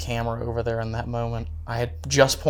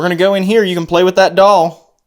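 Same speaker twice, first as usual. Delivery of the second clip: talking to a ghost; 6 semitones higher, 9 dB louder than usual. Real, not acted. Calling out to spirit.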